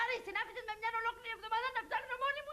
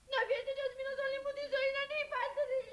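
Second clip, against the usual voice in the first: tearful outburst; 4 semitones higher than usual. Acted. Bride orders everyone out, tearful wail. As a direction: sob out the dismissal.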